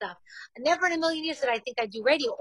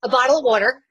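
excited blurt; 6 dB louder, faster than usual. Real, not acted. Quick eager answer to quiz.

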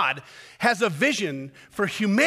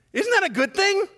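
mock indignation; 13 semitones higher, 5 dB louder than usual. Mocking Jonah's complaint.

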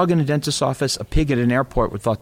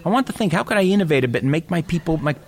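lightly hammed Staten Island dentist pitching an idea; a cliché New Yorker selling his llama plan, higher and pushy; New York dentist accent; 3 semitones higher than usual. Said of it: "it's a cliche accent".

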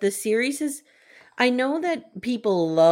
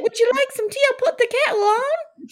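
very high, louder mock British hostess; mock British accent; 4 dB louder than usual. Mock British accent, offering tea to a friend. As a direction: chirp it like a hammed-up Brit. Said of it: "we'd be like".

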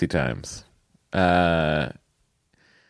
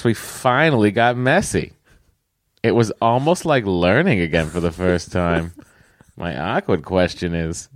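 put-on Boston accent. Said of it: "read it with a Boston accent".

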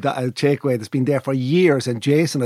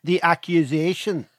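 slow, mock-formal Northern Irish accent; 2 semitones higher than usual. Shown as a demonstration. Joining in the Northern accent demos.

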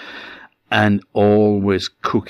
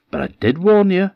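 ominous warning; 12 semitones higher, 5 dB louder, faster than usual. A narrator's reading. Miller's parting warning.

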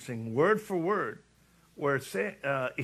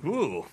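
satisfying ooh. Retold or imitated. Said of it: "a very satisfying".

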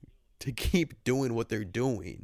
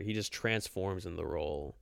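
hushed mock praise; whispering; 3 semitones lower, 5 dB quieter than usual. Real, not acted. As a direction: whisper it reverently.

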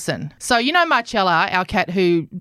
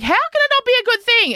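camp it up in mock outrage; camp protest. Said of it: "I was getting camper and camper".

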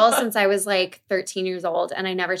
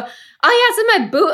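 imitating Aussie accent; 13 semitones higher, 5 dB louder than usual. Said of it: "and you go".

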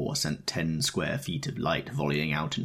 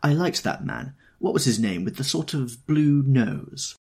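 high, bright-eyed exclamation; delighted, raised exclaim; 8 semitones higher, 4 dB louder than usual. A narrator's reading. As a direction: gush it out, lifting high. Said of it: "Daisy exclaimed".

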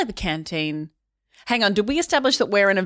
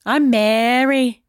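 put-on Minnesota accent; 3 semitones higher, 4 dB louder, much slower than usual. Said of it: "That accent just went".

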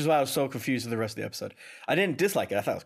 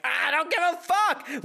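high, slow, drawn-out couldn't-care-less; careless; 13 semitones higher, slower than usual. Retold or imitated. Co-host voicing the bored viewer, drawn-out careless. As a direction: drag it out like you don't care.

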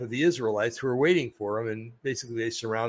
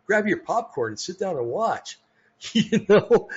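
excited; 7 semitones higher, 4 dB louder than usual. Real, not acted. Inviting listeners to watch spectacle.

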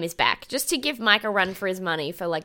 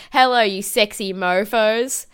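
cheesy greeting; 3 dB louder than usual. Retold or imitated. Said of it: "he walks in and he says".

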